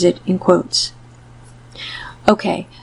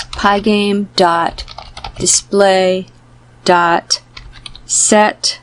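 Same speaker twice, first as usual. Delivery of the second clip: dictating. Shown as a demonstration. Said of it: "I'm going to write".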